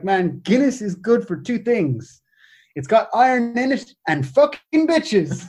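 slow, half-attempted Haitian accent, comic punchline; bad Haitian accent. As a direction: draw it out as a badly imitated Haitian man. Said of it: "Haitian guy whose accent I can't do".

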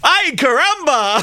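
hammed-up Mexican accent, high and drawn out; a bad, over-the-top Mexican accent exclamation. Shown as a demonstration. Host does a terrible Mexican accent on request, hammed up.

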